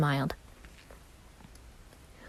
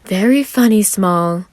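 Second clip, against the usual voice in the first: a touch of mock sulking; mock pout; 4 semitones higher, 6 dB louder, slower than usual. A narrator's reading. Roman teasing Virgil back with a mock pout. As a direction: sulk it playfully. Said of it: "Virgil mock pouted".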